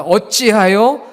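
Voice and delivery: slow, measured, projected verse reading; group scripture reading. Shown as a demonstration. Pastor reads the memory verse together with congregation, slow recitation. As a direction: lead the congregation word by word. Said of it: "한번 같이 읽어보겠습니다".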